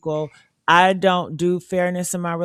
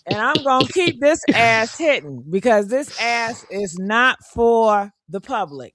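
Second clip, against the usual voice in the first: sassy brag; 4 semitones higher than usual. Real, not acted. Sassy bragging.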